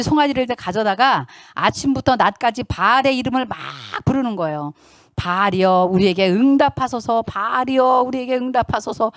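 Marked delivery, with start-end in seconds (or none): 5.2-9.1 mock priests droning an invocation; imitating pagan invocation. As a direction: call on a god like a shaman's incantation. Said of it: "무속인들이 막 그 귀신들을, 잡신들을 부를 때".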